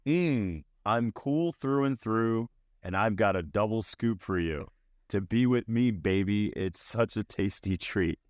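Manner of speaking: flat, unamused lyric read; deadpan reading. Shown as a demonstration. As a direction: read it with no expression. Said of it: "I'm gonna read it deadpan".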